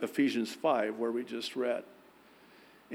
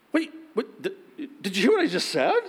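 high, loud, flustered disbelief; husband to wife, high flustered confusion; confused husband; 8 semitones higher, 5 dB louder, faster than usual. Retold or imitated. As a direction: sputter like a baffled husband. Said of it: "I was like".

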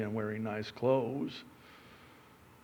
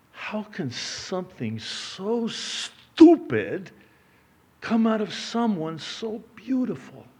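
higher, slow, drawn-out husband's complaint; exasperated husband; 9 semitones higher, 4 dB louder, slower than usual. Retold or imitated. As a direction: imitate a baffled husband, pitched up and dragging it out. Husband's line in a joke.

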